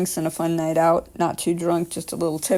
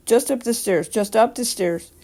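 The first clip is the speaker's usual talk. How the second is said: breathed; 4 semitones higher than usual. Retold or imitated. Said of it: "She gestured up ... and breathed".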